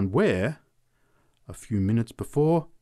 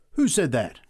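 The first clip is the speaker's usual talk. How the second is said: higher, louder challenge; startled cry; 5 semitones higher, 6 dB louder than usual. A narrator's reading. The drunk cries out at an imagined attack, startled cry. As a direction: cry it out as a demand. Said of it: "he cried".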